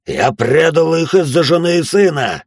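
high, loud, slow shout; yelling back. A narrator's reading. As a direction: bellow it back at her. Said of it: "заорал он в ответ".

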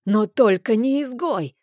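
high, loud furious yell; bellowing. A narrator's reading. Uncle roars at the priestess in fury. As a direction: roar it until your neck veins bulge. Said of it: "орал он так".

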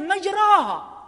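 مجراها with a long open "raa", no imala; full open alif. Shown as a demonstration. Teacher giving another reading, مجراها with open alif. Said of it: "وقرئت".

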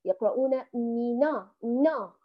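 نا said with the dialect vowel, the mistake; dialect reading. Shown as a demonstration. Teacher imitates the dialect reading of her students from Morocco. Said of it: "يقرؤون الفتحة كما في اللهجة".

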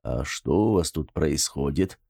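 cautious man asks the women what happened, wary and low; wary question. Acted. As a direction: ask it warily, peeking in. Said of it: "опасливо спросил".

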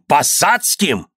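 high, slow, drawn-out disbelief; incredulous echo. A narrator's reading. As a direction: repeat it slowly, not believing a word. Father echoes in disbelief. (недоверчиво, протяжно)

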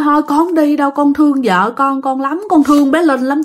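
imitating a spirit's insistent plea; pleading. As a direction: plead to stay with loved ones. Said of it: "Cứ năn nỉ".

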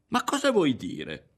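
high, slow, drawn-out challenge; indignant, stretched-out question; agitated demand. A narrator's reading. Ario demands explanation in quarrel.

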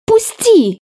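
high cracking cry; sharp high yelp breaking off. A narrator's reading. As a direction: let the voice break on it. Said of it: "мой голос сорвался".

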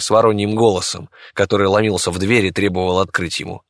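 plain reading voice

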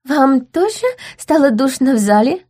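put-on high chirpy girl voice; light twittering noblewoman; chirping. A narrator's reading. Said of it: "прощебетала Глория".

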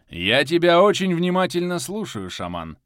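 commanding dark lord voice; a lordly, ominous ruler. A narrator's reading. Voices Geranika, lord of darkness.

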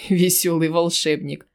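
mocking laugh through the words. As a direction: chuckle out Весёлый волшебник. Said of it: "рассмеялся гнусавый". (со смешком)

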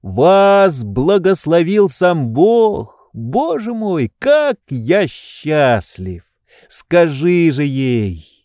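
slow, high, overflowing with joy; tearful happiness pouring out slowly; joyful. A narrator's reading. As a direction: rapture barely held in, high and slow. Oblomov overwhelmed with joy.

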